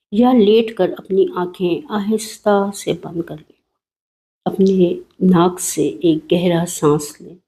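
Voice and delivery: calm, even meditation voice; soothing guided meditation read. Acted. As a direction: lead the listener gently into relaxation. एक meditation करेंगे.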